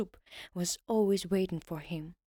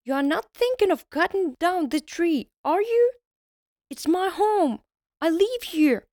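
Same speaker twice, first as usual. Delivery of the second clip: high, loud outraged elf; shrill tiny elf defending home; angry elf; 7 semitones higher, 8 dB louder than usual. Acted. Elf protests at his tree.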